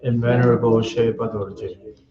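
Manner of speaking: even, measured chant-like prayer reading; prayer recitation. Real, not acted. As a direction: recite the prayer steadily, line by line, on a level tone. Recites refuge and bodhicitta prayers.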